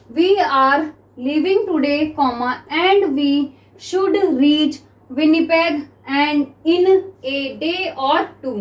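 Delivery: very slow, measured dictation; spaced-out classroom dictation; dictation reading. Shown as a demonstration. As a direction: read it word by word for note-takers. Reads out dictation text slowly.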